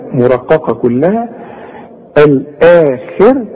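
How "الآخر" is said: الآخر slow, with a long آ; slow recitation. Shown as a demonstration. Teacher models the long آ in الآخر. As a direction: stretch the آ of الآخر two beats. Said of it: "الهمزة ... وبعدها المد".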